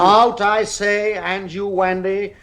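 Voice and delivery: slow, firm command to get out; stern order. Acted. Father ordering the children out, stern. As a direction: lay down the law.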